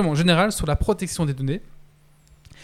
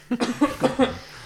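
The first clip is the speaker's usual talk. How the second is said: choking cough; 9 semitones higher than usual. Real, not acted. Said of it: "excusez-moi".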